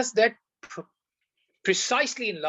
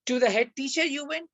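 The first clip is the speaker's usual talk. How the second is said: "To the head teacher" pitched higher and stressed, "you went" trailing; emphatic fronting; 7 semitones higher than usual. Shown as a demonstration. Teacher showing how English tone carries emphasis, stressed. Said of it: "in the tone in English, you can bring the tawqeed".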